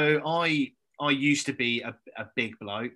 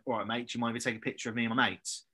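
casual quick ask; 2 semitones lower, 5 dB quieter, faster than usual. Retold or imitated. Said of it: "I literally just went up to him".

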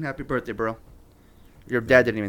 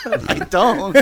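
laughing; 5 semitones higher, 5 dB louder than usual. Real, not acted. Laughing denial.

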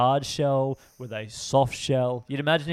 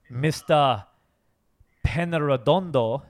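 put-on Mexican accent; hammed-up Mexican pronunciation; 4 dB louder than usual. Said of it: "I said it with a Mexican accent".

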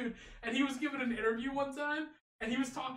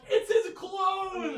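higher, louder, drawn-out cry; excited exclamation; 8 semitones higher, 6 dB louder, much slower than usual. Retold or imitated. Co-host insists on his favourite player, excited exclamation. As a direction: shout it like a big discovery.

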